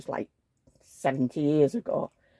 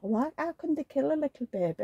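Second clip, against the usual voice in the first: retold dismay; 8 semitones higher, 4 dB quieter than usual. Quotes own horror said to Paul.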